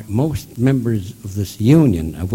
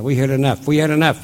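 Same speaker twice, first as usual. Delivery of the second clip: imitated crowd shouting back; raised, higher voice, mimicking hecklers; hollering; 4 semitones higher, 5 dB louder, faster than usual. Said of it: "they all holler".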